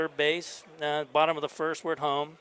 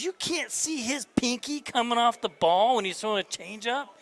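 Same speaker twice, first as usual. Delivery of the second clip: exasperated disbelief; 7 semitones higher than usual. Retold or imitated. Head coach losing his mind at assistant, exasperated and high. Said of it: "he's losing his mind".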